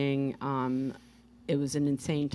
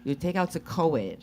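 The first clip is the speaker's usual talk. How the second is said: put-on Russian accent. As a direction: explain it as Svetlana in Russian accent. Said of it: "Where did you learn the accent?".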